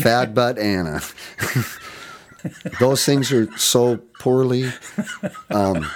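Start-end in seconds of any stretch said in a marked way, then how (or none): 0.0-1.0 Fat butt Anna said as a joke for Facibat anno; joking mispronunciation. Retold or imitated. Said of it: "Facibat anno".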